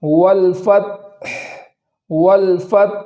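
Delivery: والفتح slow, ت closed then audible ح; slow tajweed demo. Shown as a demonstration. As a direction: draw out والفتح carefully. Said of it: "اس طریقے سے".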